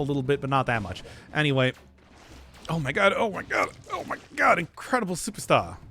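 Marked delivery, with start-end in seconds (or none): 2.7-5.8 silly voice. Pretend. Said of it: "Stop with the voice".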